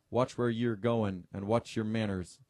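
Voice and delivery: put-on Scottish marine warning someone off, in a half-hearted Scots accent; mock Scots accent. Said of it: "he said in a thick Scots accent".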